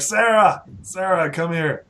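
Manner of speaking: calling out. Acted. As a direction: call her over from across the room.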